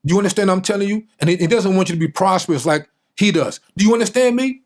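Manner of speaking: a father laying down hard facts to his son, rising in force; stern father lecturing. Retold or imitated. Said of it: "He says".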